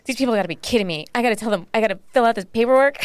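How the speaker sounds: fast, building to a laughing shout; exasperated rant. Retold or imitated. Retelling her outburst about the clinic paperwork, rising to a laughing shout. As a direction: rattle it off, blowing up at the paperwork by the end. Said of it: "I was just like".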